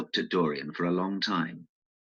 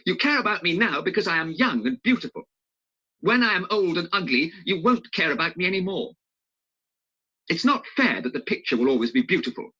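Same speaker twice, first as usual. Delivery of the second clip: lightly voiced upset young man; a hint of a bitter, hurt youth; Dorian; 11 semitones higher than usual. Dorian resenting the picture, in a mild bitter voice.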